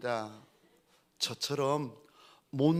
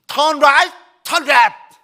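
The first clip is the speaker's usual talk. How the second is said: much higher and louder, barked out; shouted directions; 11 semitones higher, 15 dB louder, much slower than usual. Retold or imitated. Pastor shouting directions at his passenger from the wheel. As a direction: yell the turns at him. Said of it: "제가 외쳤습니다".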